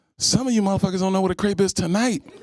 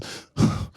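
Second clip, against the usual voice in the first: annoyed sigh. Retold or imitated. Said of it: "my impression of women who are in relationships".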